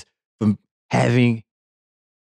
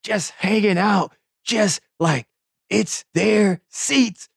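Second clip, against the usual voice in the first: indignant; 9 semitones higher than usual. Real, not acted. Indignant about seat takers.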